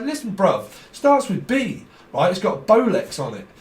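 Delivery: lightly hammed wide-boy pitch; dodgy watch seller. Fake watch seller voiced.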